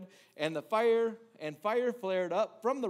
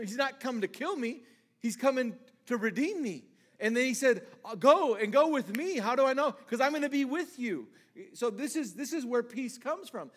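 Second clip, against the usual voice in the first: higher, louder preaching; preaching at full force; 5 semitones higher, 5 dB louder than usual. Real, not acted. Preacher driving home where peace comes from. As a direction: build to the point, full voice.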